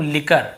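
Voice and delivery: लिकर said as "li-kar", no w sound; लिकर with the hard k and no w glide; correct pronunciation. Shown as a demonstration. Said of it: "इसे क्या पढ़ेंगे हम".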